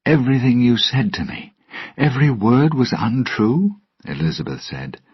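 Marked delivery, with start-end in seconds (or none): 0.1-3.8 angry accusation. Acted. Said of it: "She looked angrily at Jack".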